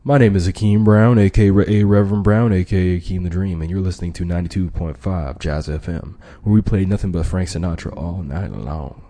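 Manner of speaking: a hint of smooth radio DJ; lightly voiced smooth jazz DJ; late night FM DJ voice. Shown as a demonstration. Demo for negotiation students, lightly smooth late night DJ. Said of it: "That's called a late night F M D J voice".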